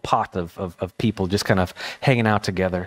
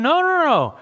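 emphatic no. Pretend. Jesus rejecting a careless answer, high and emphatic. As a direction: cut the idea off firmly. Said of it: "this is Jesus saying".

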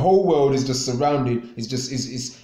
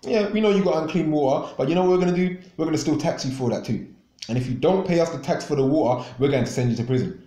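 mocking officials; 3 semitones higher, faster than usual. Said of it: "But these government officials now".

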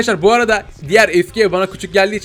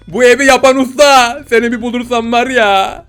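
mock-angry threat; 5 semitones higher, 6 dB louder than usual. Mock threat at the house's builder.

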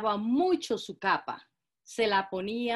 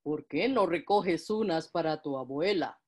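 wolf voice; 4 semitones lower than usual. Acted. Wolf tempts Caperucita.

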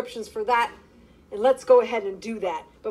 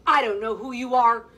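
frightened yell; 4 dB louder than usual. Acted. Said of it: "yelled the frightened girl".

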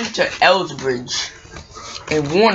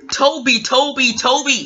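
calling out; 7 semitones higher than usual. Acted. James calls out to Toby.

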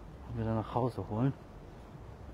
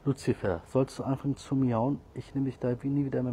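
scolding the cat; 2 semitones higher, 4 dB louder than usual. Real, not acted.

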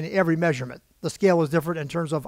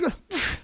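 exasperated huff; 11 semitones higher than usual. Retold or imitated. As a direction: huff out the end of a rant. Retold rant ends in exasperation.

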